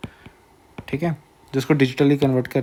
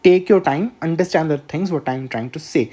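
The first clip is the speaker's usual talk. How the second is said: slow, unhurried; much slower than usual. Shown as a demonstration. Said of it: "आराम-आराम से बोल रहा हूँ".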